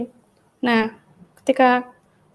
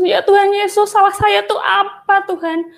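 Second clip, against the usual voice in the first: much higher, pleading cry to Jesus; retold tearful prayer, voice pitched up; tearful plea to God; 8 semitones higher than usual. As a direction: relive the hurt, calling out in tears. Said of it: "saya nyebut Tuhan Yesus".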